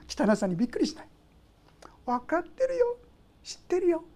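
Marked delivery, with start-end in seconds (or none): 2.0-4.0 tender God. Pretend. God comforting the sinner.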